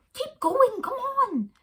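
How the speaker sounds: high, loud urging call; high, loud shout to keep running. Acted. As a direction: yell at the kids to keep going.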